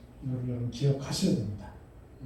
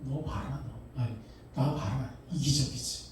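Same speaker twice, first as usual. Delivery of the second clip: accusing evil spirit; 2 semitones lower, 6 dB quieter than usual. Retold or imitated. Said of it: "악한 영은 뭐라 그래요?".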